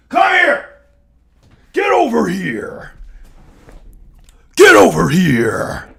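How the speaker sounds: loud, high call to a dog; shouted summons. Real, not acted. Calling a chihuahua over, shouted summons. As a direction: yell for the dog to come, drawing it out.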